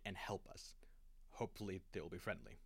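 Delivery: drops to a whisper on the last words; hushed hope. Acted. Stranded captain whispering a hope for rescue, hushed. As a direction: whisper it like a nervous prayer. Stranded crew sends desperate flare.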